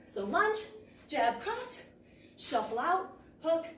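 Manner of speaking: calling strikes while punching; punching through the combo; hitting a punching bag. Real, not acted. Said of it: "Let's switch three times".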